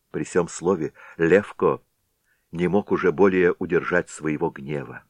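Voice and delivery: plain reading voice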